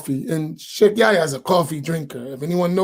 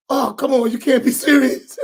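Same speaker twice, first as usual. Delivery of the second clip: disbelieving scoff; 5 semitones higher than usual. Retold or imitated.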